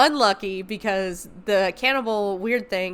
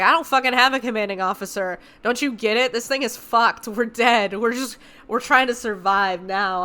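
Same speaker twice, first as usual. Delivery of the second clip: angry rant; 2 semitones higher, 5 dB louder than usual. Retold or imitated. Norman refuses commands, angry.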